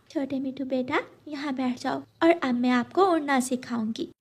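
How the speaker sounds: soft motherly coaxing; lightly voiced, soft-spoken mum; gentle mother bird. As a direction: coax a little one quietly.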